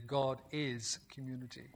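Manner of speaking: quiet emphatic echo; soft restatement. Shown as a demonstration. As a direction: repeat "God is community" gently, almost to yourself. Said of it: "I did not say God is a community".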